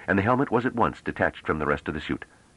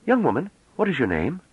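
high, gentle question; softer tone; 12 semitones higher than usual. A narrator's reading. Scholar soothes the young woman, softer tone. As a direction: coax her name out kindly. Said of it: "as though responding to the softer tone".

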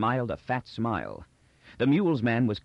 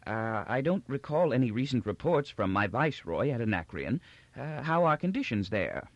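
put-on doddering old Emperor, gracious. Old Emperor welcomes visitors from outer provinces, gracious and doddering. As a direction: ramble kindly like a forgetful old ruler.

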